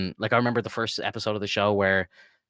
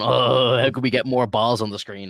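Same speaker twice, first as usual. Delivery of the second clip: lightly mocked stoner, a bit higher and louder; a hint of a giggly stoned producer having an idea; mock stoned enthusiasm; Seth Rogen; 4 semitones higher, 5 dB louder than usual. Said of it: "Seth Rogen just getting stoned and laughing and just going".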